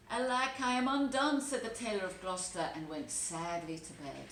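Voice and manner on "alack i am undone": higher and louder, a hammed-up wail of despair; despairing cry. The tailor giving up hope at the cat's spite, wailing high. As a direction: cry out as if all is lost.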